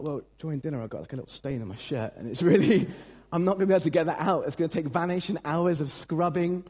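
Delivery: fast, fussy fretting over a stain with a laugh; a hammed-up panic about a stained shirt; fretful rant. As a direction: rattle it off like a mock-upset neat freak.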